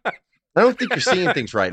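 drawn-out, slow inner voice. Retold or imitated. His brain doubting what he sees, slow and drawn out. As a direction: drag it out, slowly doubting your eyes. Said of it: "my brain was like".

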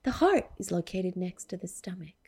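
soft breathy whisper; whispered quote. Acted. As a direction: whisper it like a secret.

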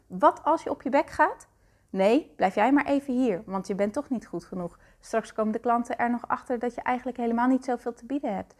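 a hint of a belittling inner critic, fast and pushy; nagging inner critic. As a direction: needle yourself like a mean inner voice. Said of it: "die constant zegt".

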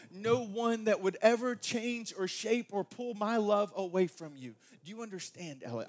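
a hint of a gentle daddy reassuring his girl; father reassuring his daughter Ella, tender. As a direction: soften into a father's promise. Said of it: "I'm like".

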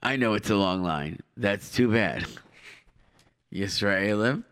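a hint of a polite official; airport announcer. Mock announcer turning people away.

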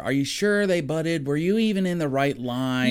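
mildly needling mock husband, questioning his wife; lightly acted bickering husband; arguing husband. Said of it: "the husband starts arguing with her".

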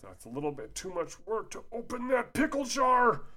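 mock-serious sarcasm, pitched high; high sarcastic scoff; sarcastic jab. Real, not acted. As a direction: scoff at the rule. Sarcastic aside on scripture rule.

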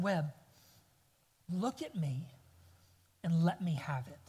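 low, soft, tender request; hushed fatherly firmness, with pauses; gentle coaxing dad. Retold or imitated. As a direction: talk a crying child down quietly. Dad coaxing his crying son.

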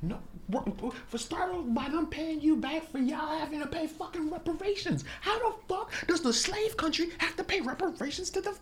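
high-pitched strained half-shout held down; whisper yelling. Real, not acted. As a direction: yell under your breath, pitch way up. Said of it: "whisper yelling?".

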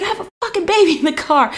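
high, quick indignant outburst; retold snapping. Mother with baby in car telling off driver, retold snapping. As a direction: rush out a high-pitched comic replay of outrage. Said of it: "like, snapping".

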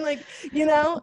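ordinary talk, nothing marked

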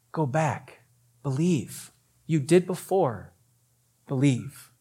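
soft, spaced-out encouragement; gentle reassurance. Acted. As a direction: urge them softly, pausing between phrases. Jesus reassuring the weeping father.

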